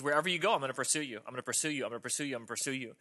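soft mother bunny. Acted. Mother bunny repeats her promise.

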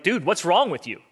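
lightly incredulous scolding; comic disbelief. Acted. Second thief scolds the other thief, comically incredulous. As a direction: play the reproach for comedy. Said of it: "comedic moment almost".

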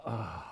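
low, very soft "oh"; weary sigh. Retold or imitated. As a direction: let out a quiet, sinking oh. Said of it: "I just kinda go".

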